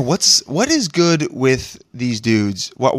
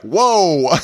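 mock taken aback; 6 semitones higher, 5 dB louder than usual. Guys' reaction to her greeting.

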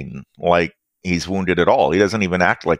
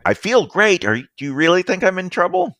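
cocky drugged villain; 9 semitones higher, faster than usual. Acted. GM voices high villain.

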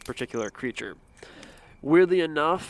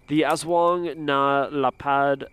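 Spanish accent; slower than usual. Shown as a demonstration. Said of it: "like, a Spanish accent on everything".

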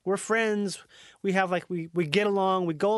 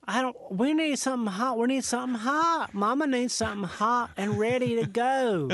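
redneck Southerner; 3 semitones higher than usual. Acted. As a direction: push the flight attendant for hot food. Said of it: "got a little more redneck".

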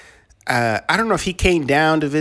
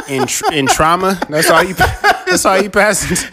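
high, louder, talking through laughter; laughing; 8 semitones higher, 6 dB louder than usual. Real, not acted. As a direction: crack up mid-sentence. Laughing at the trauma joke.

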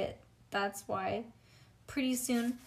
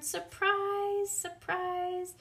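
high excited shouting; hollered; 11 semitones higher, much slower than usual. Acted. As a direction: Grace hollering surprise. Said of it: "hollered my bestest friend Grace".

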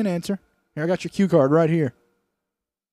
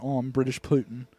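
put-on British accent; 4 semitones lower, 4 dB quieter than usual. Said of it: "I'm trying out my British accent".

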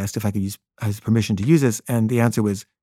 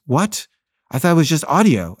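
higher-pitched, taken-aback objection; retold surprise; 4 semitones higher than usual. John balks at the camera he was not told about, surprised. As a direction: question it in mild disbelief.

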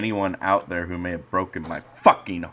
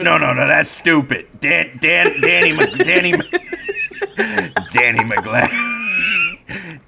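higher, louder, breaking into a shriek; seething shrieking spirit; 7 semitones higher, 3 dB louder than usual. Acted. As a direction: build into a shrieking rage. Shrieking rising as character.

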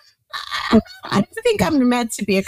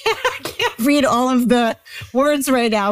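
laughing; 5 semitones higher than usual. Real, not acted. Laughing while failing to read.

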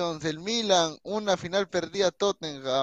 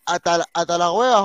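a clumsy attempt at a Chilean accent; failed Chilean accent; 4 dB louder than usual. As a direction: try a Chilean accent and miss it. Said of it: "no me sale el acento chileno".

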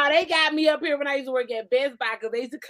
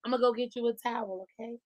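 softer, lower coaxing to a lover; sweet partner voice; 3 semitones lower, 8 dB quieter than usual. Retold or imitated. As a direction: gently offer it to your baby. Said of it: "When I'm in a relationship".

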